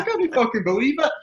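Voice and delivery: high, laughing squeal of disbelief; retold with a laughing, high-pitched squeal. Retelling disbelief at the substitutions.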